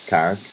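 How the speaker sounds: Carrick for Cork, said the local way; Cork accent. Shown as a demonstration. Telling of a Cork friend, Carrick said the Cork way. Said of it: "or as they would say it".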